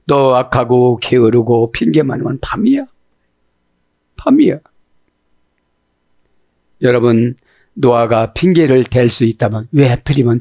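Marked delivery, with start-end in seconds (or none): 4.2-4.6 much higher, punched; emphatic repeat. Acted. Preacher declaring it night, emphatic. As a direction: drive the word home.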